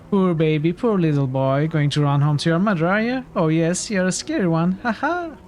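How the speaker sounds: put-on sing-song baby talk of a bully; lightly voiced bully taunting a hero; mocking thug. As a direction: coo at him like he's a child.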